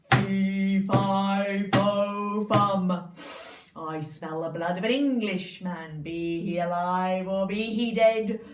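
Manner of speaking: low, loud giant roar, slowing at the end; the giant arrives sniffing for Jack, low booming voice. Acted. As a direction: boom it out like a huge giant. Giant enters the kitchen.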